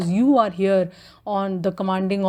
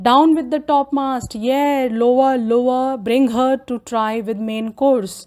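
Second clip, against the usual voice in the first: louder, higher ship's orders; shouted order; 3 semitones higher, 3 dB louder than usual. Acted. Boatswain yelling orders to the mariners, loud. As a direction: bark it up to the rigging.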